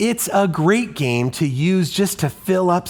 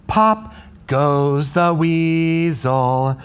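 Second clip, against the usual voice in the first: wrong rhythm demo; much slower than usual. Shown as a demonstration. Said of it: "put it right here on beat one".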